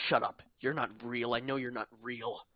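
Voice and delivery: loud, furious yell that eases toward the end. Acted. Panicked dreamer yelling at the wizard he thinks is fake. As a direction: shout him down, certain he isn't real. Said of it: "You yell at him".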